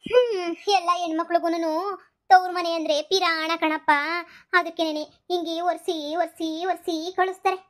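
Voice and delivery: milk it with fake tears; mock crying. Mother fake-crying to her son about daughters, mock tearful.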